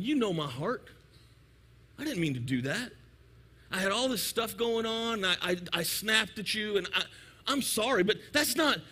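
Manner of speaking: mock-sheepish apology, a touch subdued; apologetic excuse. Pastor to offended church member, mildly pleading apology. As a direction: plead your good intentions, half-excusing. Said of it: "And I'm gonna say".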